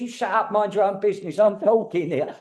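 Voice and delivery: a hint of a pushy old lady shooing him off; feisty spirit. Medium voicing the feisty spirit telling him to shut up. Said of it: "she really had this energy".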